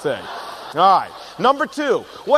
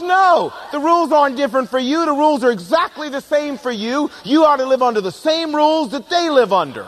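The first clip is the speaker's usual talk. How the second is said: higher, insistent mock scolding; scolding wife; 5 semitones higher than usual. Wife scolding her husband about burping, insistent. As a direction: lay down the law, half joking. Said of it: "She goes".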